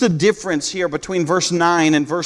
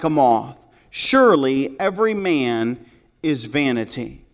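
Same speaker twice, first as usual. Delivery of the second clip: slow scripture reading. Acted. Preacher reading the psalm aloud to his congregation, slow and measured. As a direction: read the verse slowly and deliberately, weighing each word.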